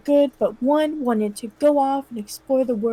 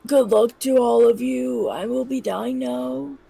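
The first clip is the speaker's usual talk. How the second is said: put-on dying old man. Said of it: "let me do the dying sound".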